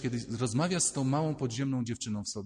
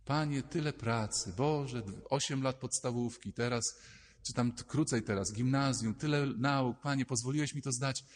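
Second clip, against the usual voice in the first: softer, hushed thankful prayer; quiet prayer. Retold or imitated. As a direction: pray it quietly to God. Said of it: "zatopiło się w modlitwie".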